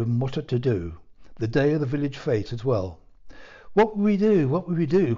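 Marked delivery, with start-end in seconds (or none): 3.7-5.2 high, loud anxious wail; distraught cry. A narrator's reading. Panicked cry, rising high. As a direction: her ladyship wails in a panic, fretting over her son. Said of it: "cried her ladyship over and over again".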